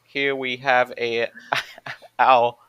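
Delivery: attempted American accent, breaking into giggles; American newsreader accent. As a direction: lightly fake an American CNN reporter. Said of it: "C N N reporter".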